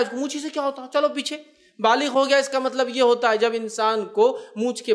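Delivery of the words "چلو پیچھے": a high mock order to move back; mock scolding elder. Imitating an elder ordering a boy to the back. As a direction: shoo the boy off, playacting. Elder shooing child again.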